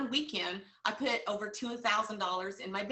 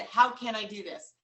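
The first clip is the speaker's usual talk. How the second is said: steady and determined; firm self-question; 5 dB louder than usual. Shown as a demonstration. Coach repeating her own phrase, steady and determined. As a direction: ask it with conviction. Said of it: "you know what the coach said".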